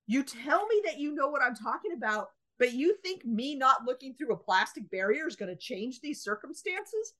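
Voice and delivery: mock the clerk's logic in disbelief; incredulous outrage. Retold angry retort to clerk.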